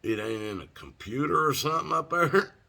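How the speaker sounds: high, loud disbelieving retort; incredulous question. Retold or imitated. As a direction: retell it as baffled disbelief. Pleading with the jail staff.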